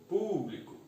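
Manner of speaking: PÚBLICO with PÚ pitched high and stretched; stressed first syllable. Shown as a demonstration. Teacher marking the tonic syllable, PÚBLICO with high, stretched PÚ.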